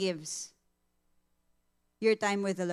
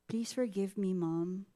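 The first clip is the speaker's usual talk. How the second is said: soft plea; 5 dB quieter than usual. Retold or imitated.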